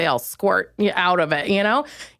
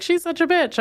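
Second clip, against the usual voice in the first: high sneering quote of gossipers; catty high-pitched gossip voice; mock sneer; 10 semitones higher than usual. Quoting people's judgment.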